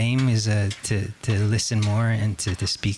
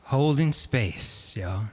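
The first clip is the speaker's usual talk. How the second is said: announcer intro; 3 semitones higher, slower than usual. Acted. Introduces the band.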